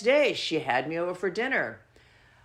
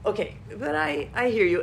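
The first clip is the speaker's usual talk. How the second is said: mock Mister Rogers; 3 semitones higher than usual. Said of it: "It's like Mister Rogers".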